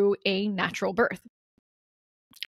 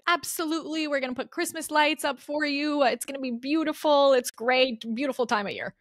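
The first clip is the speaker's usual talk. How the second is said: lilting, high-pitched retold reassurance; upbeat reassurance; 6 semitones higher than usual. Midwife promising a patient Christmas lights, imitated upbeat reassurance.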